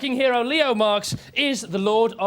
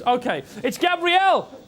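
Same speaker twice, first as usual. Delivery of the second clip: announcing. Acted. Announcing the act.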